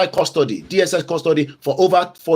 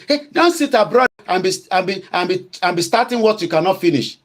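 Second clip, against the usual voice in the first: mocking critics; 4 semitones higher than usual. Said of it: "some of you say".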